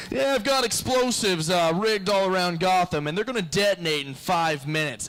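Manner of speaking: hammed-up Joker; mock Joker. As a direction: gloat like a cartoon villain. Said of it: "the Joker just rolls up".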